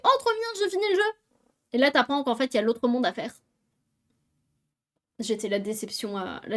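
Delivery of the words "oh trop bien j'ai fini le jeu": high and fast, overjoyed; excited. Retold or imitated. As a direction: gush like you just won. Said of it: "je me suis fait".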